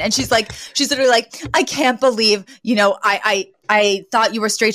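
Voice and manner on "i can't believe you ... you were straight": mock indignant disbelief; imitating someone affronted, stumbling over the words. Fran to Kurt on learning he is straight, indignant. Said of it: "She is so indignant".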